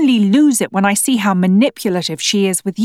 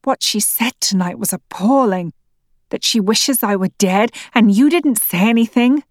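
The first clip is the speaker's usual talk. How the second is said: rising anger; 3 semitones higher than usual. Acted. Acted marital quarrel, wife accusing.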